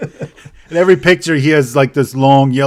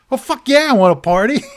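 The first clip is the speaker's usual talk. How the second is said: eager yes; 11 semitones higher than usual. Retold or imitated. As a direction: jump at the offer like a party guy. Guy eager for coke.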